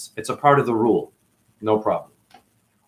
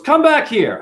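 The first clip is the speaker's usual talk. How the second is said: boss yelling; 11 semitones higher, 4 dB louder, slower than usual. Retold or imitated. Boss yelling at him to return.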